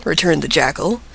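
ordinary delivery, nothing marked

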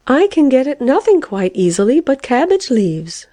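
high, plaintive complaint; mildly distressed. A narrator's reading. Caterpillar with only cabbage leaves to offer, mildly distressed. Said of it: "murmured the caterpillar in distress".

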